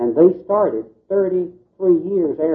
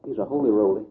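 lower, softer confidential aside; mock whisper; 4 semitones lower, 6 dB quieter, faster than usual. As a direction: drop the voice as if sharing a secret, mock-whispering. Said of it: "I'll whisper to you".

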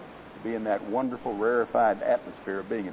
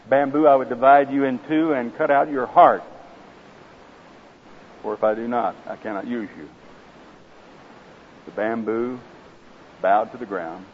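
story narration. A narrator's reading. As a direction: tell the parable gravely, savouring each image. Reads parable aloud in sermon.

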